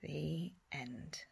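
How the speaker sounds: soft bedtime whisper. Real, not acted. Teacher whispering the end to sleepy children. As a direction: breathe out the ending.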